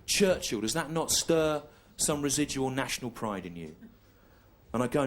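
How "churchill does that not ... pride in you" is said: a touch of a proud schoolboy reciting poets; mock patriotic schoolmate. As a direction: classmate urging national pride, lightly mocked. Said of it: "And they go".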